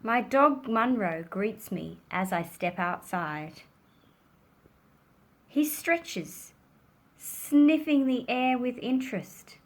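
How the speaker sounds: expressive picture-book reading, measured with pauses; story narration. A narrator's reading. Child narrator greets curious dog, gentle storytelling. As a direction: read it to children, lifting the dog's questions.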